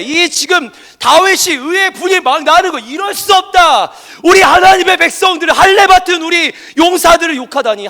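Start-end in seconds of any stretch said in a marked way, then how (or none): 2.8-7.9 burn with holy outrage; righteous anger. Retold or imitated. David at the Philistine's insult, angry outcry. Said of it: "지금 화가 났어".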